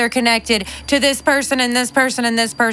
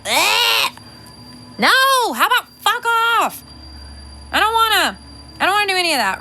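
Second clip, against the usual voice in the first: bratty high protest; mock refusal; 9 semitones higher than usual. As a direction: whine like a fed-up brat. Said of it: "I'm like".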